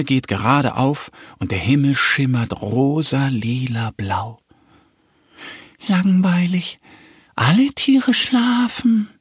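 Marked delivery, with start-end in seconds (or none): 5.9-9.1 much higher, slow bored duckling; bored duck. Acted. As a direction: drag it out like a bored little duck. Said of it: "meint Annie".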